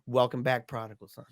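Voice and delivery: low, softened priestly welcome; retold tender welcome. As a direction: let it drop soft and low. Retelling priest's welcome at the end.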